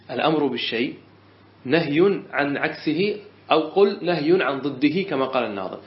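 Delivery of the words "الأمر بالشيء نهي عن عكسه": a teacher spelling out the rule for note-taking; deliberate restatement. Shown as a demonstration. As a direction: repeat the rule word by word, slowing on نهي عن عكسه. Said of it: "بس".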